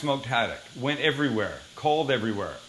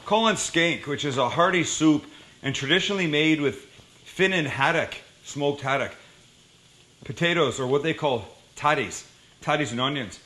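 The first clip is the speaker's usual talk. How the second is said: put-on light Scottish accent. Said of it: "Shall I do this with a, a Scottish accent?".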